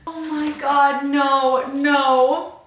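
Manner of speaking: real shocked protest; shocked denial. Real, not acted. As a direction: plead with the book, stunned. Reacting to a shocking scene.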